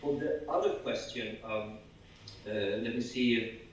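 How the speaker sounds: groggy, slow and low; hungover. Real, not acted. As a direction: sluggish hungover mumble. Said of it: "sorry, I'm so hungover".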